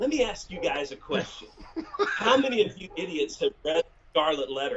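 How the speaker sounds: dead-calm, eerie, unsettlingly composed voice. Retelling how he asked the group a question: imitating scary psycho calm. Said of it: "psycho calm, you know, like the calm where I would much rather him yell, like, scary".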